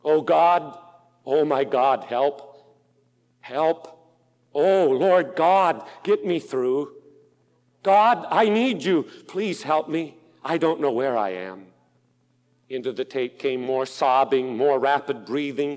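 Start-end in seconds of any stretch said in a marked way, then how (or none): 0.0-11.7 desperate cry for help. Retold or imitated. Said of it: "and I quote verbatim".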